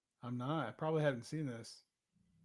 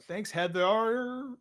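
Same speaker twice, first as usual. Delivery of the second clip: sarcastic thanks; 7 semitones higher, 8 dB louder, much slower than usual. Real, not acted.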